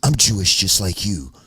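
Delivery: a hint of a nervous suburban guy; mock impression of a rapper. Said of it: "That's how he said it".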